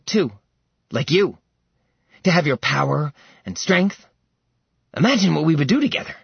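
mad prince. Acted. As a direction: coax the caged dragon with a crazed hunger. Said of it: "His gaze tinged by insanity".

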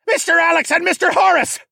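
high, loud captain's summons; full-force call to attention; shouted summons. A narrator's reading. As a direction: holler the crewmen's names through the storm. Captain shouting names in storm.

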